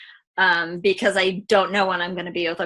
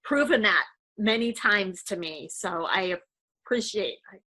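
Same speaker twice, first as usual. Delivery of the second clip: much softer, voice breaking with emotion; teary, hushed gratitude; fighting back tears; 3 semitones higher, 5 dB quieter than usual. Real, not acted. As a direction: hold back the tears as you thank him. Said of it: "I'm not gonna cry".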